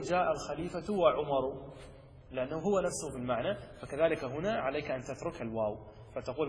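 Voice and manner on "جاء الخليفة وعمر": جاء الخليفة وعمر drawn out slowly, each word spaced; deliberate slow counterexample; slow wrong example. Shown as a demonstration. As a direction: spell out the wrong form slowly. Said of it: "ما تقول".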